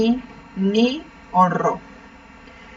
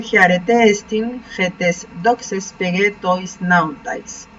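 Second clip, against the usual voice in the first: slow reading; much slower than usual. Shown as a demonstration. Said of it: "La catorce".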